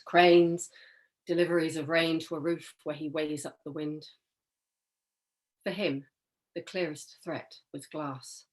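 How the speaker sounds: deliberate poem in short, spaced phrases; poetry reading. Acted. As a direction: recite with weight on each image. Reads own poem aloud.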